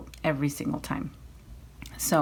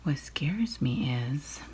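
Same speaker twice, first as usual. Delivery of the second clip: whispering; 4 dB quieter than usual. Real, not acted. Whispered confession about buying more.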